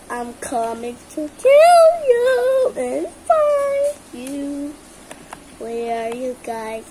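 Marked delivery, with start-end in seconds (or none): 0.1-4.7 mock monster threat. Beast chasing other players.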